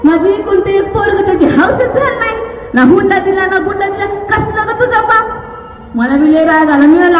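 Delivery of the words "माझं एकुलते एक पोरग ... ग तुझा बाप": quarrelsome. Retold or imitated. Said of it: "लागली भांडायला".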